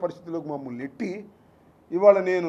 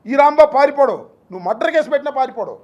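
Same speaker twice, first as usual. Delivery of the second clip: loud and high, then rushing on faster; defiant shout; 5 semitones higher, 6 dB louder than usual. Real, not acted. Politician vows to reporters he won't flee, loud defiant shout. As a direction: hurl it at the accusers, refusing to run.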